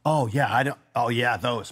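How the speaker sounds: a playful hint of it clicking, drawn out; mock dawning recognition. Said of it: "And they".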